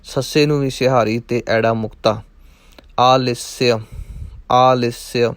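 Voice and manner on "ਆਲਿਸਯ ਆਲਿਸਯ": ਆਲਿਸਯ with long aa, short i, "aa-lis-si-a"; spelled-out pronunciation. Shown as a demonstration. Teacher demonstrates ਆਲਿਸਯ as "aa-lis-si-a". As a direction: break ਆਲਿਸਯ carefully into its syllables. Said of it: "ਇਸ ਤਰ੍ਹਾਂ ਬਣੇਗਾ".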